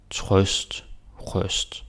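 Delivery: "trøst" with an open ø like the vowel in "thought"; Danish pronunciation. Shown as a demonstration. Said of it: "this one is trøst".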